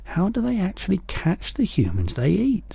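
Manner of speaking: put-on a small girl asking anxiously; high childlike voice; Sophie. A narrator's reading.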